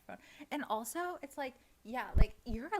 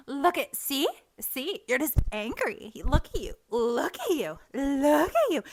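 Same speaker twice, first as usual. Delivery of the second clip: taunting mock pointing-out; mocking accusers; 4 semitones higher, 3 dB louder than usual. Imitating people who push her to anger, mocking. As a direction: imitate a smug accuser, stretching the last words.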